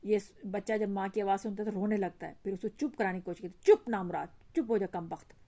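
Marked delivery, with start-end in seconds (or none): 3.6-5.4 angry hush. Acted. Mother hushing crying child.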